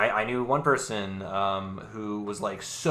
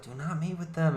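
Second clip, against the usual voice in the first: mock stern Syl; 6 semitones higher, 4 dB quieter than usual. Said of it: "Syl's like".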